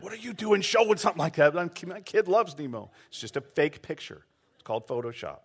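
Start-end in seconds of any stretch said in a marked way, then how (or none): 0.0-2.9 mock angry parent. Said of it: "have some parents mad".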